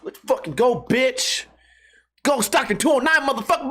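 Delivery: comic cocky challenge; fighter trash talk. Acted. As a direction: taunt like a hyped-up fighter. Acts chicken as trash-talking fighter.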